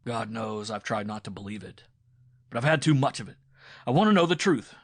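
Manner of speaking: loud, building fury; rising to a shout of betrayal; jealous husband accusing his wife of an affair; angry accusation. A narrator's reading.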